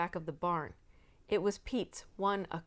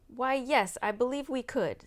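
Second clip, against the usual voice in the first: kindly; 6 semitones higher, 6 dB louder than usual. A narrator's reading. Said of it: "said Tom kindly".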